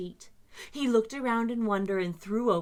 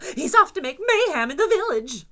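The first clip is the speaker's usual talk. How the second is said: louder, laughing with glee; gleeful shout; 8 semitones higher, 9 dB louder than usual. Acted. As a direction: cheer at the coming mayhem. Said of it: "shouted Grump".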